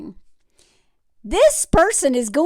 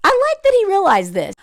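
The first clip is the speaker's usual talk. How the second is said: higher, put-on musing voice; mock pondering dude; 8 semitones higher than usual. Host imitating the tech bro pondering his spending, mock musing. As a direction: mimic a guy thinking aloud. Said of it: "And this dude's like".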